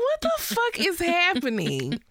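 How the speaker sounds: mock disbelief. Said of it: "I was like".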